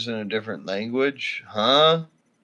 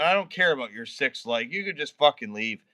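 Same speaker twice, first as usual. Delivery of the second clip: normal talking voice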